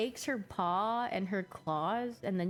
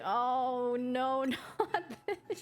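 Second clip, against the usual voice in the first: higher, slow mock dismay with a laugh; dog's dismay; 5 semitones higher, much slower than usual. Streamer voicing her dog recoiling from pickled ginger, mock dismay. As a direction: voice the dog cringing, lightly hammed. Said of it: "She's like".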